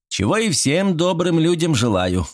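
good-natured. A narrator's reading. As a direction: say it with an easy grin. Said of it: "добродушно ухмыльнулся я".

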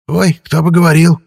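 high, loud scoffing spirit; mocking ghost. A narrator's reading. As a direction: jeer back like a cheeky ghost. Ghost mocks the ghoul.

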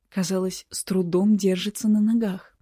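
usual speaking voice

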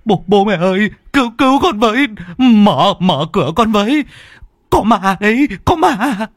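high, loud, stammering pleas at the door; panicked cry for help. Acted. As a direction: beg them to open up, in a panic. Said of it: "nghe tiếng thằng con quý tử cầu cứu".

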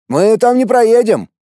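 high, tense female voice; pleading, alarmed woman; wife's frightened protest. Acted. Wife protests. (испуганный женский голос)

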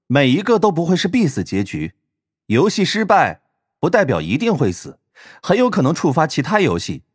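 composed villainess. Acted. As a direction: explain coolly with a playful lift. Villain girl speaks after laughing.

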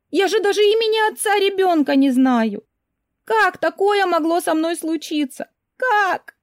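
high, loud panicked outburst, rising into shrill wails. Acted. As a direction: she spirals into panic over the test. Heroine panics over pregnancy.

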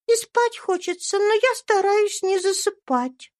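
put-on high, bright child's voice; little girl Eva. A narrator's reading. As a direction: speak as a sweet little girl. (тонкий детский голосок)

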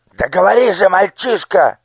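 loud, high, threatening demand; a cruel minister bullying a child; menacing interrogation. Acted. (угрожающий допрос)

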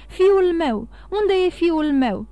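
loud, distraught questioning; frantic demand. A narrator's reading. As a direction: demand an answer in alarm. Frantic father searching for his son.

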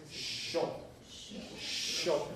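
sho said long and soft, almost whispered; drawn-out hushed sho for the ŝ; soft sho demo. Shown as a demonstration. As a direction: breathe out a gentle sho. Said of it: "Es larga y suave".

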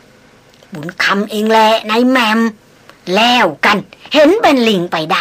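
put-on slow, sheepish mumble of an old hunter caught out; sheepish, wry smile. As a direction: sheepishly own up with a dry smile. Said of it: "ยิ้มแห้งๆ พูดอ้อมแอบ". (พูดอ้อมแอ้มเขินๆ ยิ้มแห้งๆ ช้าๆ)

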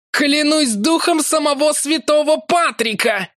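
Larry swearing in frustration; howling oath. A narrator's reading. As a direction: howl it to the heavens. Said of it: "взвыл Ларри".

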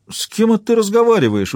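high-pitched puzzled question; astonished, pitch jumping high; surprised. A narrator's reading. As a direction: ask it as a baffled tramp. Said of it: "удивился бродяга".

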